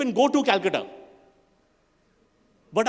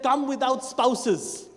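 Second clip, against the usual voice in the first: suggestive invitation; much slower than usual. Retold or imitated. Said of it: "invitation said".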